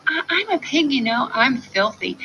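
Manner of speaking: high piglet voice. Acted. Piglet pleads cleverly, high.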